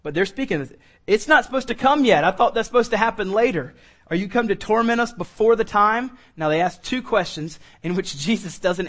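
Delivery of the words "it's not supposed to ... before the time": high, loud frantic demon cry; alarmed, the end came too early; panicked demons. Acted.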